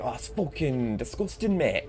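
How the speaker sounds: slow, hammed-up Manchester accent; mock Manchester accent. Gamer joking in a Manchester accent, slow. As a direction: drag out the Manchester slang. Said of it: "do a Manchester accent".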